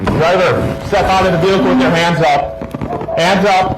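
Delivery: commanding shout. Real, not acted. Officer orders armed driver out.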